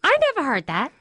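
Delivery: imitated Brooklyn accent in denial; mother's Brooklyn accent. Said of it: "So I guess the Brooklyn accent".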